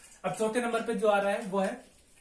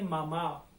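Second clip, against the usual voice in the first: मामा with the second मा drawn out; stress on final आ; 2 semitones lower, much slower than usual. Shown as a demonstration. Teacher contrasts it with कासा, मामा stressed on the final आ. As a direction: lean on the last syllable of मामा. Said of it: "लेकिन इसको जो हम पढ़ते हैं वो बोलते हैं मामा".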